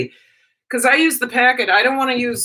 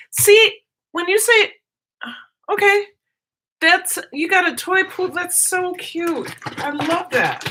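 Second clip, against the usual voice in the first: squealing over a puppy, much higher; high cutesy voice; 8 semitones higher than usual. Real, not acted. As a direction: gush like talking to a puppy. Cooing over viewer's new puppy.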